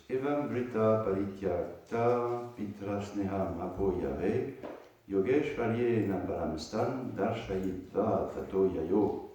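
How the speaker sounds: measured reading aloud of a verse; scripture reading. Acted. Teacher reading a scripture verse to students, measured recitation. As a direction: recite the verse, then read out its translation.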